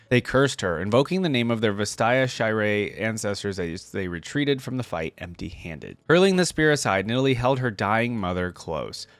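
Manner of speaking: lore read in a lightly dramatic storyteller voice; story narration. A narrator's reading. Reading Nidalee's lore to viewers, gentle story narration. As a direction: read it like the opening of a legend, unhurried. Reads champion biography aloud.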